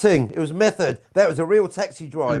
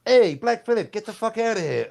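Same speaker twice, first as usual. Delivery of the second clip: put-on light Jersey-accent brush-off; mock New Jersey tough talk; 2 semitones higher than usual. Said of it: "that was my Jersey accent".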